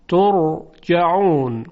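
ترجعون slowly, with a thick, heavy r. Shown as a demonstration. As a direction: draw out ترجعون, keeping the ر full.

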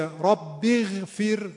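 اغفر with ghayn thinned out completely, drawn out; wrong, too light ghayn. Shown as a demonstration. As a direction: strip all heaviness from the غ in اغفر. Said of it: "این غلط".

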